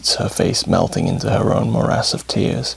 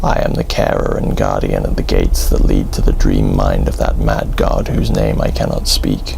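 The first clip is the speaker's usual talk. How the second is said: many-mouthed guardian; 11 semitones lower than usual. A narrator's reading.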